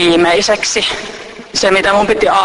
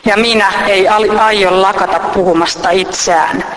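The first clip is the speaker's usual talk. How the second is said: poem reading. Acted. Reading a reflective text aloud to listeners, measured.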